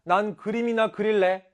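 high, loud, snippy brush-off; bratty refusal. Acted. Girl refuses to help her classmate, bratty and snippy. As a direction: toss the request aside like a bratty kid.

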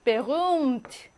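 베rum트 with a long vowel and no h; silent h. Shown as a demonstration. Teacher models silent h, 베rum트 with long vowel. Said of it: "앞에 모음을 길게".

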